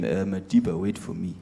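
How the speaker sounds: low, fading, a lightly voiced Mbeki; Mbeki calling after. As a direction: lag behind and plead to wait. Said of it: "Mbeki behind him".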